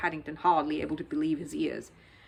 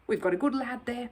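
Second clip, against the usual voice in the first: approving; 3 semitones higher than usual. Acted. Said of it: "he said approvingly".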